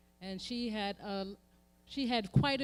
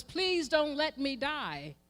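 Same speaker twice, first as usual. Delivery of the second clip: drawn-out, mournful cry; a slow lament for survival; slow ancestral plea; 5 semitones higher, slower than usual. Acted. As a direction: plead slowly for life. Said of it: "the cry was".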